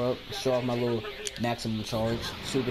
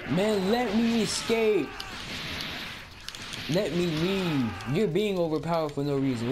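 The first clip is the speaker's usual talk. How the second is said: whiny pleading; 5 semitones higher than usual. Real, not acted. Begging the game opponent to stop.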